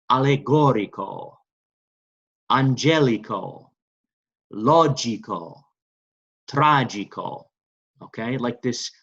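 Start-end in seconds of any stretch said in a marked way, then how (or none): 0.1-7.4 slow, drawn-out Italian model words; repeat-after-me model. Shown as a demonstration. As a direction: say each word slowly for a class to echo. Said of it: "So repeat after me".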